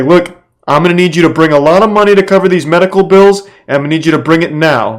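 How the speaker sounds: lightly acted threatening stranger on the phone; scammer demanding money. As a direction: play the shakedown guy who wants cash now. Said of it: "He's like".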